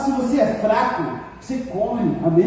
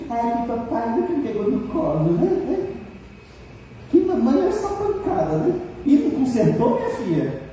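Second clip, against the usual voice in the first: lightly mimicked whiny grievance, pitched up in places; mock complainer. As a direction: imitate someone moaning about their parents. Mimics people complaining about parents. (imitação de reclamação queixosa)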